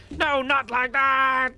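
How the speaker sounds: high, slow, wailing goblin protest. Acted. Spellix wailing at the guardian as he's thrown. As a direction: drag out the horrified objection.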